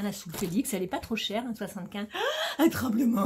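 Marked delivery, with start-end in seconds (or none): 2.1-3.3 laughing high mock exclamation. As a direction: laugh it out, hammed-up. Mock dramatic reaction with laugh.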